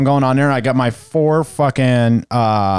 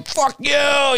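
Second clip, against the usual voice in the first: higher, half-hearted road rage; mild mock angry; 11 semitones higher than usual. Cursing at the Kia driver from the car, mock mad. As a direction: flip him off with a fake snarl. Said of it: "you know, all mad".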